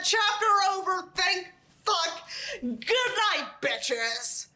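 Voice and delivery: high, bright relieved sign-off. Real, not acted. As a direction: glad it's over, sign off. Relieved sign-off after chapter.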